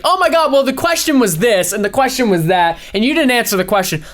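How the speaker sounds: mock heated debate. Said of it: "they'll be like".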